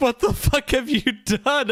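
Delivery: appalled disbelief, very high horrified outcry. Retelling a comic panel where a girl sees a ghost: imitating a horrified character. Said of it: "Just horrified with her mouth agape".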